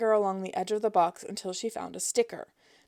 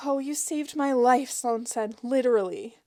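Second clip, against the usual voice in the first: higher, louder mock gratitude; gushing thanks; 4 semitones higher, 4 dB louder than usual. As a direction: overdo the relief. Gushing thanks to phone agent.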